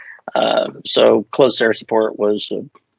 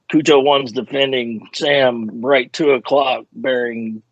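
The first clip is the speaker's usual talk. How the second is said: measured, deliberate radio call; direct radio call; 2 semitones higher, slower than usual. Shown as a demonstration. Trained fighter pilot calling in a missile on the radio, direct. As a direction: report it slowly and directly over the radio. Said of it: "you're very direct on the radio".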